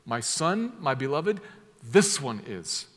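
"this" leaned on and falling, slowed at the end; literal word order. Shown as a demonstration. Preacher reading the literal Greek order, leaning on "this". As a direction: read it as a proclamation, landing on "this one is". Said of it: "That's the literal way it's put".

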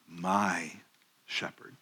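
"My shepherd" dropped soft, "shepherd" near breathless; a quiet secret, spoken low; hushed emphasis. Shown as a demonstration. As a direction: lean in and let "My shepherd" fall to a hush. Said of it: "Notice what he says there".

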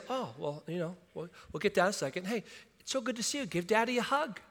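soft, offhand, unbothered chatter; breezy daddy, no alarm at all; casual calm parent. Pretend. Parent home from work, softly chatting to child.

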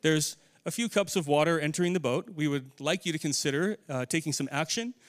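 overly polite mock request. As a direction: play the absurdly polite disciples, unbothered. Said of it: "do you think that that's what this story portrays".

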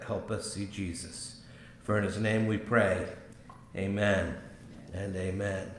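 earnest, measured pastoral prayer. Acted. Pastor praying before the sermon, in a hushed, earnest prayer voice.

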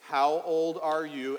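drawn out and slow; slow call to kids. Shown as a demonstration. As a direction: ask it slowly, like a cue. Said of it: "I'm gonna say".

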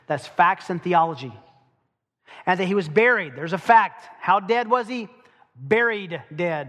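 loud, building hammering of the point; loud preaching with buried dead slowed; emphatic preaching. Real, not acted. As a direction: drive each fact home.

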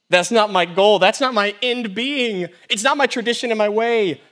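emphatic declaration. Acted. Christ voiced rejecting worldly goals.

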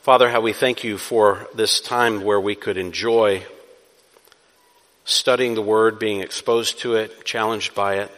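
low-pitched, measured public prayer; closing prayer. Real, not acted. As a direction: lead the congregation in prayer, pausing between phrases.

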